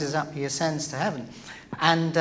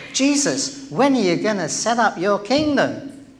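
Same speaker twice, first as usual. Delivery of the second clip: disciples' question; 5 semitones higher than usual. Retold or imitated. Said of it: "the disciples say to him".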